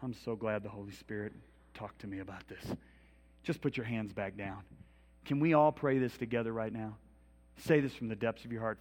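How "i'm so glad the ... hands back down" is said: usual speaking voice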